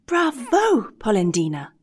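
a hint of a tiny hidden voice, high cheer; lightly voiced little voice, teasing; little voice exclaiming. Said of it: "exclaimed the same little voice".

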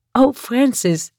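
high, playful lilt on the name; giggly. A narrator's reading. Woman teasing her lover, giggly. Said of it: "giechelde ze".

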